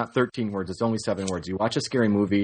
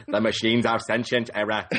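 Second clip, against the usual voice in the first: put-on movie-hero voice; Christian Bale. Cohost joins the Terminator riff, mock Bale voice. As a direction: do a jokey Bale impression through amusement. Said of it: "Terminator Salvation era Christian Bale era".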